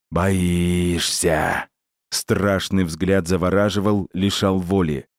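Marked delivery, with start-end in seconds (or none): 0.1-1.7 протяжный чужой голос твари; протяни вопрос зловеще; шипение твари. Acted. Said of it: "прошипела тварь". (лёгкое шипение твари)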